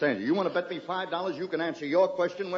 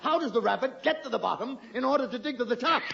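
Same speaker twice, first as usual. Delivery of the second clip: laughing; 5 semitones higher than usual. Real, not acted. Host laughs, springs his trap.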